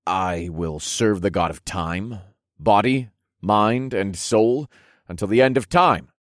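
measured, phrase-by-phrase vow; solemn oath. Acted. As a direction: lead the oath word by word. Leading the sworn oath.

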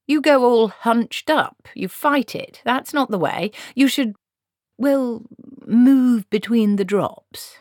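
put-on lecturing old witch. Granny teaching the wizard to walk in rain, lecturing. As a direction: instruct him like a know-all granny.

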